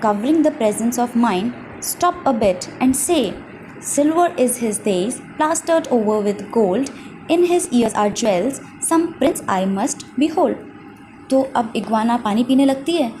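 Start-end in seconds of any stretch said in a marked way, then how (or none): 1.8-10.5 slow, drawn-out sly jackal; jackal demanding the rhyme. Acted. Jackal ordering the animals before they drink, slow and insistent. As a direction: lay out each line slowly, like a demand.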